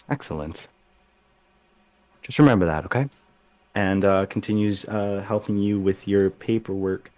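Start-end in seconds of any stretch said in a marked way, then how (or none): 0.1-3.1 pleased grandmother. Acted. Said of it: "smiles and goes".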